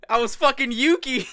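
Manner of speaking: exasperated outburst. Real, not acted. Caught out, laughing in disbelief.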